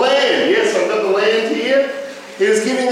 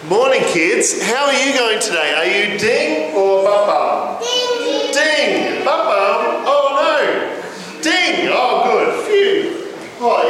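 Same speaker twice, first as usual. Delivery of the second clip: put-on talking to children; slower than usual. Children's talk, ding game.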